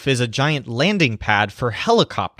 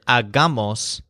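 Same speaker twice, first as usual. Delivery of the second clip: hagamos with the stress on GA; stress on middle syllable of HAGAMOS; slower than usual. Shown as a demonstration. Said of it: "has a stress on the middle syllable".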